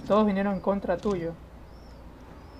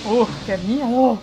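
higher, louder startled cry; scared shriek; 3 semitones higher, 7 dB louder, much slower than usual. Real, not acted. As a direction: yelp it in fright. Jump scare.

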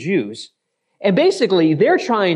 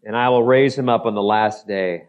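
solemn reading; 5 semitones lower than usual. Acted. Reading Jesus' words slowly, low.

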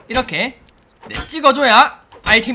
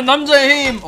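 battle cry; 5 semitones higher, 4 dB louder, slower than usual. Pretend. Hammed battle cry swinging tool.

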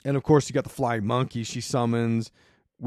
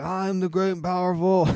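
mock booming yell; 6 semitones higher than usual. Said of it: "he's yelling at him".

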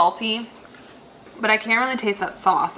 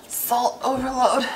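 breathy whispered aside; whispering; 3 semitones higher, slower than usual. Real, not acted. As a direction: whisper it under your breath. Whispered comment while eating.

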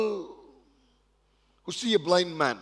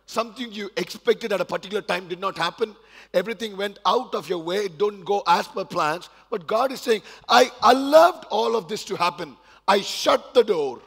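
emphatic preaching; 5 semitones higher, 8 dB louder than usual. Acted. Preacher voicing God to the struggling congregation, building emphatic preaching. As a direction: preach it louder, building in force.

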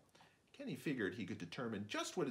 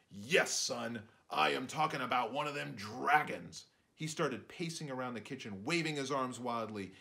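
loud, high and alarmed; panicked father urging the family to flee; frantic dad; 6 semitones higher, 6 dB louder than usual. Acted. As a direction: sound the alarm, rising to a roar. Dad pacing, waving arms wildly.

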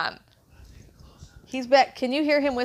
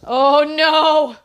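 loud, high, drawn-out lament; hammed-up distress; mock dismay; 6 semitones higher, 8 dB louder, much slower than usual. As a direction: play up the tragedy of it. Mock drama over an unmatched shoe.

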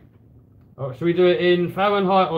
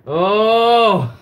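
sudden loud surprised gasp; startled at the reading; 4 semitones higher, 5 dB louder than usual. Real, not acted.

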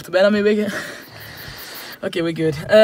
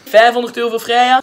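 auctioneer; 3 semitones higher, 5 dB louder than usual. Acted. Auction bidding at Monopoly.

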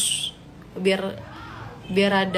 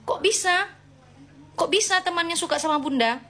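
surprised; 6 semitones higher than usual. Real, not acted. Surprised at viewer's crush.

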